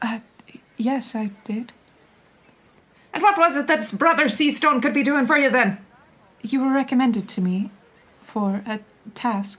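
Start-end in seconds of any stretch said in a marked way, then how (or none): 3.1-5.8 big, booming, loud, quick-fire character voice. Voicing a character asking another what they want, big loud voice. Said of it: "like a big voice, like a loud voice".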